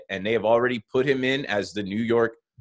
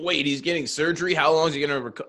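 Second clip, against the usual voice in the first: mock alarm; 5 semitones higher, faster than usual. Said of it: "Like, that's always the reaction".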